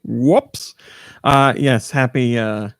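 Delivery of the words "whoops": whispering. Pretend. Echoing co-host's whoops.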